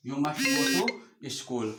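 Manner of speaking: very slow, every word spaced out; slow dictation. Shown as a demonstration. Teacher to pupils copying, slow dictation. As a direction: spell it out word by word for pupils to write.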